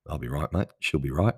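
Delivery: Aussie dad saying. Retold or imitated. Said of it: "that's what the Aussies say".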